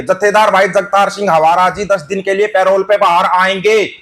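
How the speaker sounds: slowly, with weight on every name; repeated slowly for the listener to take in; slow and deliberate. Shown as a demonstration. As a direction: spell out each word slowly so it sinks in. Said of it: "ध्यान से सुन के चले जाना".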